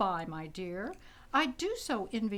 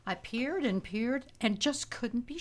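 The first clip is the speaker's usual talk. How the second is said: surprised greeting; 3 semitones higher than usual. Acted. Gushing acquaintance spots Laura.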